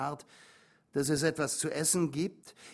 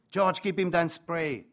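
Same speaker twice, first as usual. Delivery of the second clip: slow, louder, firm order; commanding; 4 semitones higher, 6 dB louder, slower than usual. A narrator's reading. Mother ordering the father to hand over his spray, commanding. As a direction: lay down the order, no arguing. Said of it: "befahl meine Mutter".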